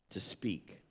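breathy whispered emphasis on the key word; hushed emphasis. Real, not acted. Preacher whispering the key word to the congregation. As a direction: drop to a whisper to land the point. Preacher stressing speaking, not praying.

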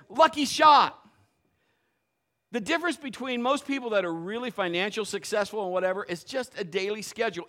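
normal talking voice

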